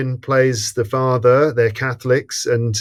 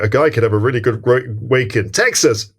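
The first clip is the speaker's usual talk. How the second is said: "Texas" punched in like a dubbed word; overdubbed TEXAS. Shown as a demonstration. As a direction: make "Texas" stick out from a slowed line. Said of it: "does the word Texas sound different".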